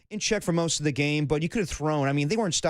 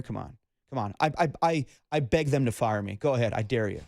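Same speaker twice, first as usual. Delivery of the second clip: low mumbling Belichick; 5 semitones lower than usual. Retold or imitated. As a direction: grumble it like a sour old coach. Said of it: "Bill Belichick".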